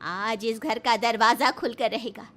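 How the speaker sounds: wife defying husband over the key, lightly voiced; defiant Kammu. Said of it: "कम्मू ... कहती है".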